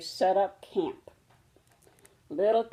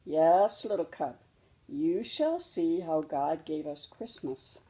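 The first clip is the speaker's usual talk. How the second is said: gentle reassuring mother. Acted. Mama soft reassurance.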